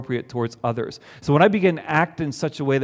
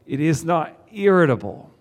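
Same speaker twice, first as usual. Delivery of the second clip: words squeezed through clenched teeth; through gritted teeth; 2 semitones higher than usual. Shown as a demonstration. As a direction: say it with your teeth together. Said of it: "I say that through my teeth".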